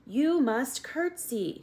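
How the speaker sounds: head servant shouting to Meg, slow and high; shouted. A narrator's reading. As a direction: Louise spelling it out for a deaf girl. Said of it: "shouted Louise".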